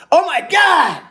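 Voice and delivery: sudden high, loud yell of real surprise; surprised shout. Real, not acted. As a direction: blurt it out, genuinely floored. Sudden big super chat arrives.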